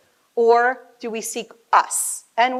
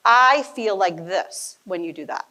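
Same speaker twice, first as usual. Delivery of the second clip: slow I-statement; 4 semitones lower than usual. Shown as a demonstration. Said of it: "you point your fingers like this".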